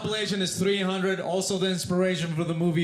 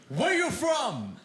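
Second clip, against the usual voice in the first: mock scream; 9 semitones higher, slower than usual. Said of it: "he screamed".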